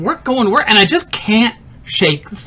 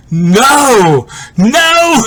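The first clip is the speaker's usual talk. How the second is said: dismayed; 3 dB louder than usual. Acted. Waking up in dismay, acted.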